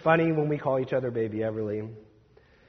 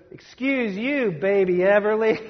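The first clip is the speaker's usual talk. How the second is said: put-on high, slow toddler voice, much higher pitched; little toddler voice; 4 semitones higher than usual. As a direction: imitate a three-year-old scolding his baby sister. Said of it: "in his little toddler voice".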